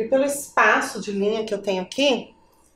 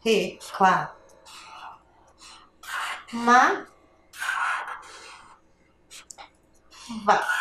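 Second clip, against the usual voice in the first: RE, CLÁ, MA, VÁ as isolated syllables with long pauses; 2 semitones lower, 5 dB quieter, much slower than usual. Shown as a demonstration. Teacher writing for the class, dictating "re, clá, ma, vá" piece by piece. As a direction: sound out "re, clá, ma, vá" while writing. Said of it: "Eu dividi a palavra reclamava".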